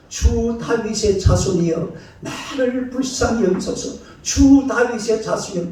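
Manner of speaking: a woman's thin, drawn-out plea for mercy, held back; pleading woman's cry. Retold or imitated. Pastor voicing the woman heard by Jesus, soft high plea. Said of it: "예수님께서 그 소리를 들으면서".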